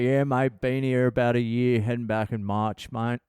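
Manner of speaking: put-on broad, casual Australian accent; full Aussie. Chatting to a fellow Antipodean dad, full Aussie accent. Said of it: "Just going full Aussie".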